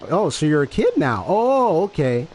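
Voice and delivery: knowing, singsong "oh, okay"; retold reprimand with a high-rising "oh"; not screaming. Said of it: "That's not a scream".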